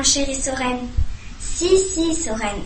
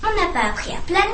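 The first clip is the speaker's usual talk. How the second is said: grumbling; 5 semitones higher, faster than usual. Acted. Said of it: "grommela Gilfi".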